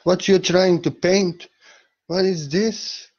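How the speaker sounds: lightly acted baffled interrogator; puzzled questioner. Critics questioning Salvador Dali's paintings, puzzled and pressing. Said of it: "He was asked".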